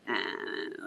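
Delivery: low gravelly "uh", imitated; deep throaty croak, mimicking the mother. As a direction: imitate a gravelly voice on one drawn sound. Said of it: "had a very gravelly voice".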